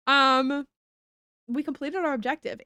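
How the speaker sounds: ordinary talk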